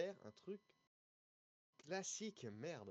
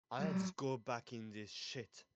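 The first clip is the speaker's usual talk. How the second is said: put-on Quebec French accent; 3 semitones lower, much slower than usual. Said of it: "pourquoi t'as fait un accent québécois".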